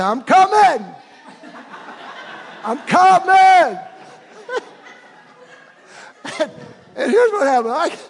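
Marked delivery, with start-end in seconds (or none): 0.0-3.8 loud, high laughing call. Retold or imitated. Calling to Tina far ahead, laughing loudly. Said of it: "I say". 3.8-6.3 airy rising laugh with no voice; high breathy laugh. Real, not acted. Preacher laughing at his own story, airy and high.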